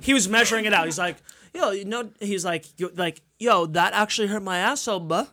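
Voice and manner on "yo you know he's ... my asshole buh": badly faked Canadian accent; botched mock Canadian; terrible Canadian accent. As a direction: attempt a Canadian accent and miss. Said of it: "that was a terrible Canadian accent".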